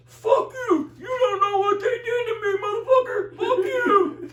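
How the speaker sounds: hammed-up furious shouting, repeated curses; imitating an angry outburst. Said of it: "Barry goes".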